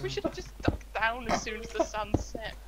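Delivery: put-on pirate accent. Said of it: "keep up with the accent".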